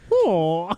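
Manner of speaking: drawn-out Minnesota O; mock fart noise as a long Oh; long O fart sound. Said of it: "like a long O sound".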